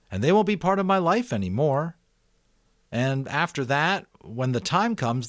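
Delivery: put-on a boy thinking aloud, picking up speed; eager boy Jonas.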